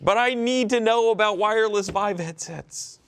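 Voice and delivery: high, loud exaggerated complaint; mock indignant whine. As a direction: whine it like a wronged child. Mock indignation over internet.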